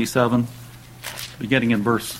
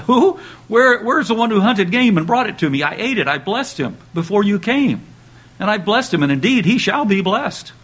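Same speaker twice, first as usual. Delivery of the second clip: high, loud alarmed outburst; the old father realizing he's been tricked; "Who?" cried out, then urgent and distressed; shocked Isaac; 8 semitones higher, 3 dB louder than usual. Acted.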